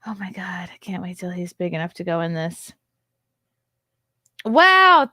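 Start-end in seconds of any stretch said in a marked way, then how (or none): 0.1-0.7 whisper. Real, not acted. Awed by the gift. 4.4-5.1 amazed. Real, not acted. Amazed by gift.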